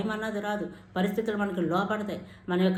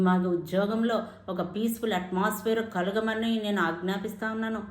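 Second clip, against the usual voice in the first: firm prayer declarations, one after another; proclaiming declarations. Shown as a demonstration. Preacher models faith declarations for the congregation, firm. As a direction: declare each line with authority.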